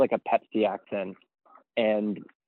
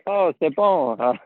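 put-on Pepsi accent; 5 semitones higher, much slower than usual. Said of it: "it's called the Pepsi accent".

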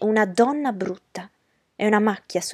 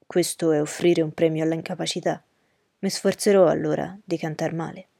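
a lower, courteous gentleman's voice; Rochester's voice; 4 semitones lower than usual. Acted. Rochester politely agreeing with Miss Ingram, in a lower gentleman's voice. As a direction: drop the pitch for a composed, gallant host.

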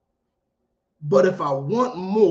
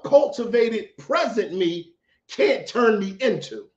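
a real, unplanned crack in the voice; 4 semitones higher than usual. Real, not acted. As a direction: voice cracks up high on the words. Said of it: "Why did my voice just crack like that?".

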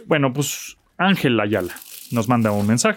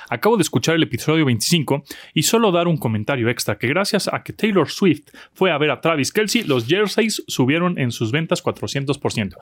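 reading with a mouth full; 2 semitones higher than usual. Real, not acted. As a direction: talk through a bite of cookie. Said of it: "me estoy comiendo la galleta".

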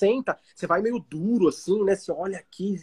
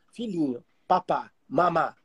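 put-on slow, soft cooing baby talk to a newborn; 4 semitones lower, 5 dB quieter, slower than usual. Parent cooing baby words to a newborn, soft and slow. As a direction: coo it like a parent over a crib.

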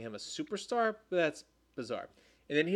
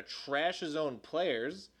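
getting emotional; 4 dB quieter, slower than usual. Real, not acted. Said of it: "sorry, I'm getting emotional".

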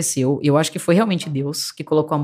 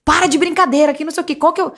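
nervous father; 8 semitones higher than usual. Retold or imitated. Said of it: "meu pai nervoso".

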